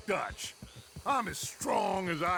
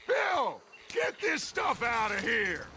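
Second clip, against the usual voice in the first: calling out order; 4 semitones higher than usual. Acted. Ordering gang member.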